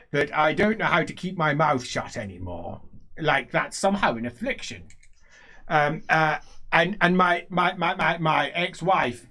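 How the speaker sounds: lightly voiced rambling old man; a touch loud and halting; blustering old nobleman. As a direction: stammer through an old man's grievance. Same old character rambles on.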